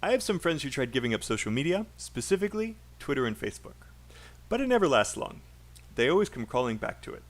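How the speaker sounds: quick linked chunks split by short pauses. Shown as a demonstration. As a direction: model sentence for copying, phrase by phrase. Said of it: "Make sure you copy my pauses and my chunks".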